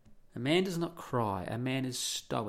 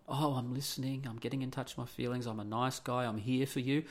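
mock nice guy. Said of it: "acting as if they're something they're not".

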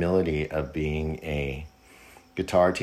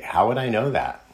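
incredulous retort; 6 semitones higher, 5 dB louder than usual. Retold or imitated. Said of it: "I kinda wanted to say".

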